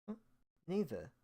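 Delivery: high, loud, squeaky puzzled voice; hammed-up baffled non-binary person; finicky mock confusion. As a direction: play dumb in a shrill mocking squeak. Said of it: "I look at them all finicky and go".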